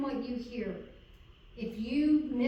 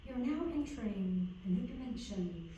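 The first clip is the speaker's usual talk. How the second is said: Star Trek narrator quote; 5 dB quieter than usual. Retold or imitated. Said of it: "how did Star Trek say that".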